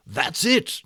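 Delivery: hammed-up eureka shout; excited shout. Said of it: "shouted Joseph Tomei".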